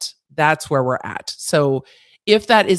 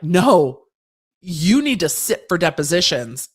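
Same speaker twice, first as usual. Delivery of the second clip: louder, firm mock-judge refusal; stern court; 5 dB louder than usual. Court ordering him to sit for depositions, mock stern. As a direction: lay down the law, imitating a fed-up court. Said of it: "but the court being like".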